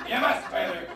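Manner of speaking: lightly voiced melodrama villain; mustache twirling villain. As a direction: menace her over the rent. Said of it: "very famous sketch ... The Perils of Pauline".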